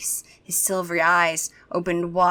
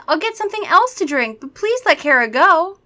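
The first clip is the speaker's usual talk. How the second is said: begging; 9 semitones higher, 5 dB louder than usual. Acted. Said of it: "I begged".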